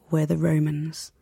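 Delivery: quiet, slow, understated mob-boss menace; a hint of a mob boss, said softly and slowly; mild Tony Soprano. Tony Soprano answering the Jewish guy, a quiet slow hint of menace. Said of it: "it's James Gandolfini in his great accent".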